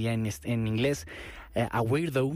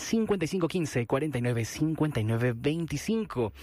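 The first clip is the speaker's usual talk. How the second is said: quick, rattled-off delivery. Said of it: "Si lo dije muy rápido".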